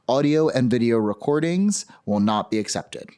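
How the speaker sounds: official rules read-out, key phrases lifted; formal hearing script. Real, not acted. Chair tells public how to testify, formal read-out. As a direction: read procedural rules to the room.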